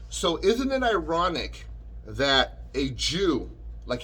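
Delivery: slowed, leaning hard on the word Jew; stress on Jew. Real, not acted. Vlogger ranting at Howard Stern, pressing on Jew. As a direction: land heavily on Jew, drawn out. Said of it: "I'm gonna emphasize the word Jew".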